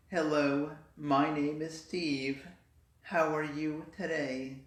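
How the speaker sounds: slow, flat, mildly monotone man; lightly voiced monotone man. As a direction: drone it out like a dull guy. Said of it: "men used to speak very monotone".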